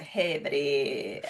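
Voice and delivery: drawn-out, low self-mimicry; imitating own odd voice. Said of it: "don't think I've ever made that voice before".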